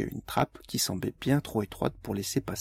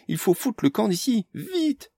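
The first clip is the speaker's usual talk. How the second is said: urgent; 11 semitones higher, 4 dB louder than usual. A narrator's reading. Amélie urges flight.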